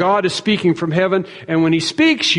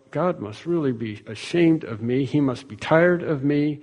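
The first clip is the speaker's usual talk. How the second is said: quiet shame; 3 semitones lower, 6 dB quieter than usual. Pretend. Imagined self-talk before God, ashamed.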